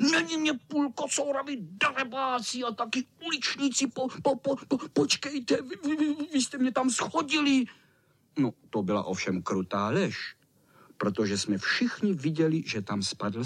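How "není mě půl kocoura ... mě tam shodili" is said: indignant stammer. Acted. Cat angry, stammering.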